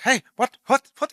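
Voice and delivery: hammed-up shocked stammer; mock astonishment. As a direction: imitate a startled German doctor. German guy shocked by phone.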